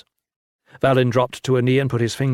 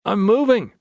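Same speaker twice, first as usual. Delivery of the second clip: called back; 8 semitones higher than usual. A narrator's reading. Valin answering Lin, called back. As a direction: call it back across the room. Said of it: "he called back".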